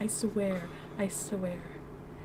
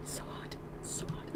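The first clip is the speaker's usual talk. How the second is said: breathy sexy whisper; 16 dB quieter, much slower than usual. Pretend. Streamer imitating the guy's sexy whisper, whispered. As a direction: whisper it hot in their ear. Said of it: "talking like that to you in your ear".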